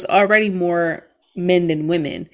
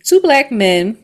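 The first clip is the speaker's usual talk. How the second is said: "Two black men" said again, a bit louder, with stress on "Two"; repeated for emphasis; 3 semitones higher, 5 dB louder, slower than usual. Shown as a demonstration. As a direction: lean on "Two" in disbelief. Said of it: "So it was only two black men".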